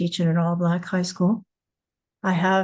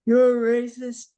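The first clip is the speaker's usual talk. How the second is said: retold accusation; 4 semitones higher than usual. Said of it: "He made it loud so everybody could hear".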